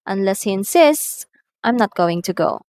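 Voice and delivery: rising clause then falling clause; rise-fall intonation. Shown as a demonstration. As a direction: rise on "Unless he insists", fall on "I'm not going to go". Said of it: "the tone rises in the first clause".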